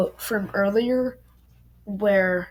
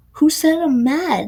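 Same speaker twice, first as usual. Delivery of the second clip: higher, louder shout of denial; angry yell; 7 semitones higher, 4 dB louder than usual. Acted. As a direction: throw the denial back at him, yelling. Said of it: "Nico yelled".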